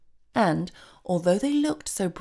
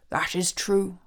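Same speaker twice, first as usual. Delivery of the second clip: almost cheerful; slower than usual. Acted. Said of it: "almost cheerfully".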